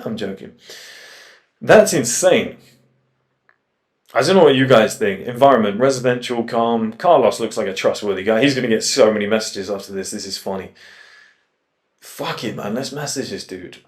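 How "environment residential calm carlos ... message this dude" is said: usual speaking voice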